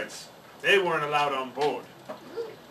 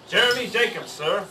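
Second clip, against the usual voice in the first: put-on polite boy; 4 semitones higher than usual. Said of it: "I told him".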